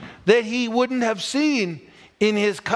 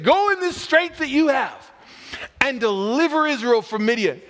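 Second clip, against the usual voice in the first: lightly voiced commanding God, unhurried; a hint of a stern divine order; mock God command; 4 semitones higher than usual. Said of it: "this is like him saying".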